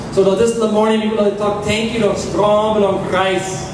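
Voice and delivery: rhythmic pleading prayer. Acted. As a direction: pray for the people. Congregational prayer for the people.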